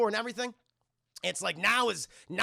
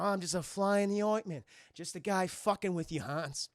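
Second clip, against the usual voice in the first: Bruce Willis impression. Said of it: "This Bruce Willis impression".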